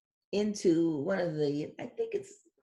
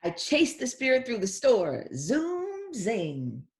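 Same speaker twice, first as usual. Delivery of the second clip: louder, higher line, zoom shooting up; excited chase; 5 semitones higher, 3 dB louder, much slower than usual. Acted. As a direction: race through it. Reads girl's lines.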